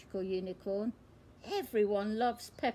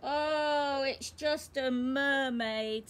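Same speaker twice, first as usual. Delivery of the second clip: sighing letdown; 2 semitones higher, 4 dB louder, slower than usual. Acted. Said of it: "sighs Peppa".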